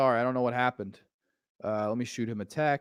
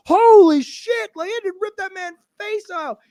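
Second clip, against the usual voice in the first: put-on awestruck kid; 10 dB louder than usual. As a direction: gasp it out like a stunned child. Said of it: "I remember being a kid being like".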